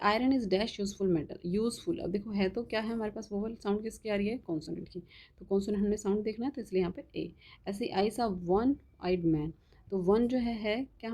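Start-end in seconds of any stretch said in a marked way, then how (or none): 0.1-1.4 dictation pace. Shown as a demonstration. Dictating example sentence. 8.1-9.5 very slow, word by word, as if dictating; dictation pace. Shown as a demonstration. Teacher dictating an example sentence to the class, very slow.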